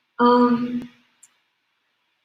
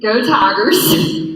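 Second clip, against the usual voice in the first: slow, drawn-out Baton Rouge cheer; Baton Rouge accent; 7 dB louder, much slower than usual. Pretend. Guest tries the Baton Rouge accent on request. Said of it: "in her best Baton Rouge accent".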